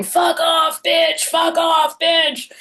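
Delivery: high-pitched mock shout; imitated yelling. Priest retelling a bleeding man's outburst in the parish hall, mock yelling. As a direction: yell it in imitation, pitch jumped right up.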